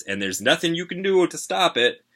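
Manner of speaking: high, loud singsong imitation; dad's saying. A narrator's reading. Kid quoting what Dad always says, singsong imitation. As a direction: swoop up as if reciting a motto.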